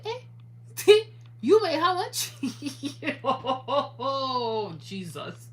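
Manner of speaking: disbelief at the lost money; shocked laughter. Real, not acted.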